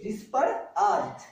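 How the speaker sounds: डिस पर आज said slowly, each part apart; slow split sounds. Shown as a demonstration. Teacher to class, spelling the sound out slowly. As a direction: break डिस पर आज into three slow parts. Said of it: "sound सुनिए".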